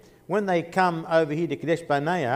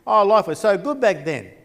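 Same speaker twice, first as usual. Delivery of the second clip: whinging and moaning; 4 semitones higher, 3 dB louder than usual. Retold or imitated. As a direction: imitate a crowd moaning about what they miss. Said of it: "people are whinging and moaning".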